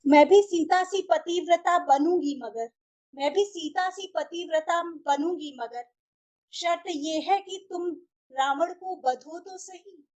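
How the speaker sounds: measured verse with pauses between lines; rhythmic, pointed recital of a love challenge; poem recitation. Acted. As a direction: recite each line deliberately, like a mushaira. Recites own poem, lines repeated.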